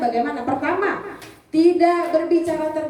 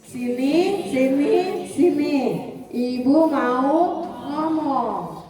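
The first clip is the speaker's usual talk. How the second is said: slow gentle invitation; 2 semitones higher, much slower than usual. Shown as a demonstration. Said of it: "Ayo semuanya".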